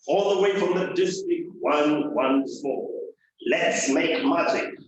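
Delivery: big booming trailer-announcer read; hammed-up movie announcer intro. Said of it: "like a movie star".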